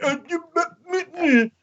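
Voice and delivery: high, stammering and tongue-tied; mock stammering Trump. Trump caught out by the Democrats, stammering high. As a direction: sputter helplessly, lost for words. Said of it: "And he's like".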